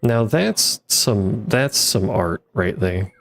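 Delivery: slow, dry ironic praise; mock-admire the bad art; sarcastic. Real, not acted. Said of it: "you don't have to be good at everything".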